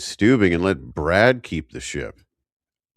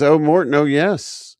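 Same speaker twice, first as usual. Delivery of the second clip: gushing lady voice; 9 semitones higher, 6 dB louder than usual. Retold or imitated. Voicing Eleanor's greeting.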